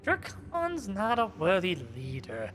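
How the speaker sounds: scorn it like a vampire. Acted. Voicing vampire NPC.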